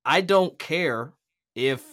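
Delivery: declaring his independence to the networks, defiant. Retold or imitated. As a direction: say it like you've stopped caring what they think. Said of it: "I was like".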